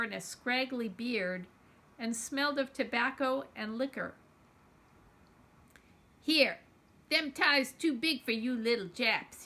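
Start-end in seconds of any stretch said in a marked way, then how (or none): 6.2-9.4 rough, louder bully voice; menacing growl. Acted. A big drunk man growling at the children, menacing. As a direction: growl it down at the kids. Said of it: "he growled".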